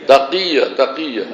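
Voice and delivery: তাকিয়া said clearly for repeating; pronunciation demo of তাকিয়া. Shown as a demonstration. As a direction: model the word তাকিয়া for the class. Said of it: "এই শব্দটা উচ্চারণ করতে পারেন না". (তাকিয়া শব্দের উচ্চারণ শেখানো)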